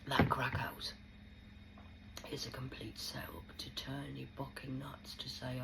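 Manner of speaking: hushed, breathy whisper; confiding whisper about the crack house; whispered aside. Real, not acted. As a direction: drop to a secret whisper.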